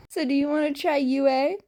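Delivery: breezy Shirakumo offering UA; inviting question. A narrator's reading. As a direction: ask it lightly and fast. Shirakumo asking the boys.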